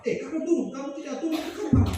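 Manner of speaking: angry parent shouting. Retold or imitated. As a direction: bark orders at a climbing child, mock angry. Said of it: "orang tuanya di sini marah-marah".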